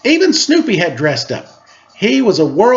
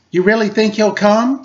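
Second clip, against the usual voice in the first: hopeful question; 4 semitones higher than usual. Acted. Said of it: "Sally asked".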